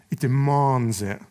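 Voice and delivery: imitated Scottish accent, slow and drawn out. Preacher quoting a football pundit, slow Scottish accent. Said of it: "in his Scottish accent".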